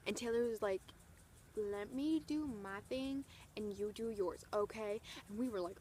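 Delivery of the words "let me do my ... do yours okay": sassy. Retold or imitated. Singer answers her security person back, sassy imitation. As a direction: draw it out with measured attitude. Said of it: "the singer is sassing someone right in front".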